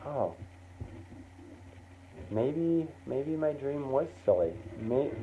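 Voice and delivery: quiet, halting, dejected musing; self-doubting kid. Acted. Kid just sits there doubting the dream, dejected. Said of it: "you start to doubt yourself".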